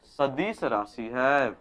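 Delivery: very slow, each word drawn out for note taking; slow classroom dictation; dictation pace. Shown as a demonstration. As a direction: say it slowly so they can write it down. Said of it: "तो लिख देना कि".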